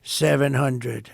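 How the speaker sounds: slow, emphatic cockpit countdown; computer voice. Retold or imitated. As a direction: lightly imitate an automated altitude warning. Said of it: "It's a computer voice".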